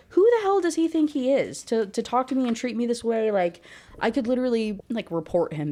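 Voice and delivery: high-pitched acted outrage; mock indignant anger. Woman angry at how he treats her, acted indignation. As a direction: imitate her fuming, starting high and easing down. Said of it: "also angry about this wishy-washy stuff".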